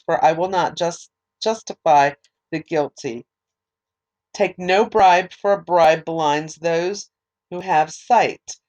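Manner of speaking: measured, formal Bible reading; scripture reading. Acted. Reading Exodus aloud to listeners, measured scripture reading.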